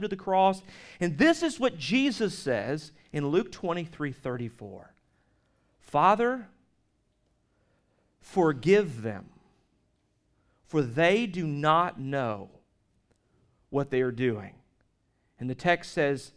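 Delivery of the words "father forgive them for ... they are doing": Jesus's plea. Retold or imitated. Jesus's words from the cross.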